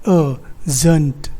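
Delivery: "जंट" sounded out slowly by itself; isolated syllable. Shown as a demonstration. Teacher gives the fourth syllable, "जंट" slow and isolated. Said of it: "and then".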